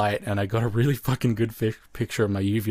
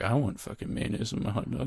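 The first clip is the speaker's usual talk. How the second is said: muttered much softer to himself; under his breath; 7 dB quieter than usual. Retold or imitated. In the theater beside his sister, softly muttered to himself. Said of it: "I said to myself under my voice".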